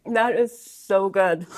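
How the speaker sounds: talking through a big bite; words muffled by a mouthful of food; mouth full. Real, not acted. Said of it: "my mouth is full".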